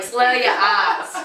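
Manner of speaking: drawn-out, laughing Boston slur; slurred Boston accent. Shown as a demonstration. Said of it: "it's just an angry accent".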